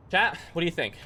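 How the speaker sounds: winded after push-ups; panting between words; out of breath. Real, not acted. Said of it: "I'm out of breath".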